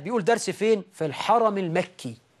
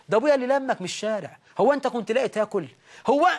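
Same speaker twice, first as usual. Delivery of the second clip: mock scolding wife; 3 semitones higher, much faster than usual. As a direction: nag him fast, then blast the end. Wife taunting her husband.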